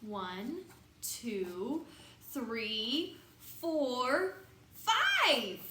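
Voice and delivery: each number climbs until five bursts out; building count. Acted. Reader counting elephants with kids, building to an excited five.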